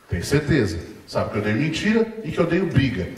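a father setting a trap; calm stern father. Retold or imitated. Father pressing calmly.

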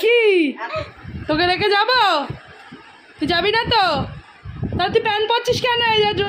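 loud and high, teasing through laughter; laughing tease. Real, not acted. Teasing child, half laughing. (হাসতে হাসতে খ্যাপানো)

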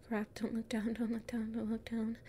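soft, hushed don't-look-down mantra; calm yourself above a drop; quiet nervous muttering; nervous self-talk. Acted. Afraid of height on stairs.

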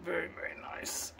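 breathy Southern whisper of admiration; hushed, awed whisper. Real, not acted. Admiring a Friedman amp, he whispers softly.

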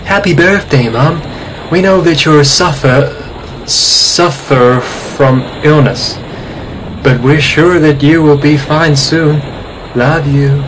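mock clingy girlfriend reading a birthday note; overly attached girlfriend. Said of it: "my overly attached girlfriend impression".

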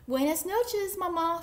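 high-pitched little chick voice; tiny chick saying goodnight; baby chick. A narrator's reading. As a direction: chirp it high and loud. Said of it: "said the baby chick".

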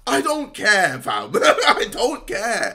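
shrugging it off through laughter; laughing. Real, not acted. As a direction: laugh while refusing to care. Laughing dismissal.

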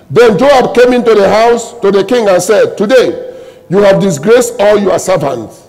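loud, punched-out Bible reading; scripture reading. Acted. Preacher reads Joab confronting the king, forceful declamation. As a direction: proclaim the rebuke word by word.

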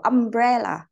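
"umbrella" with the BRE syllable punched; stress on second syllable. Shown as a demonstration. Teacher confirming the answer for the class, "umbrella" stressed on BRE. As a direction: say um-BRE-lla, hitting the middle of "umbrella". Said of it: "âm thứ hai".

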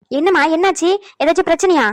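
somewhat loud, urgent scolding. Acted. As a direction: press her with agitated questions and reproach. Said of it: "கத்திக்கிட்டு கிடக்கா".

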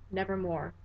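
a soft, final nevermore; hushed raven reply. Acted. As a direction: let it fall away softly. Raven's answer in the poem.

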